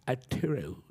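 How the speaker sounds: mock British caller leaving a message; fake British accent. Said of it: "in a fake British accent".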